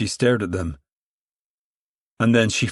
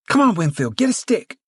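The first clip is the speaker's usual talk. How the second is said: calling out; 10 semitones higher than usual. A narrator's reading. Ruthie calls Winfield to join her, calling high. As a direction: call across the court. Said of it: "she called".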